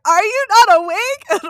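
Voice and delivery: high, loud doll-like squeal; Bratz doll voice. Retold or imitated. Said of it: "She sounded like a Bratz doll".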